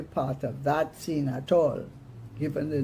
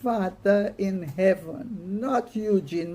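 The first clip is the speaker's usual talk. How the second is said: growing agitation; 4 semitones higher than usual. Acted. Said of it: "with growing agitation".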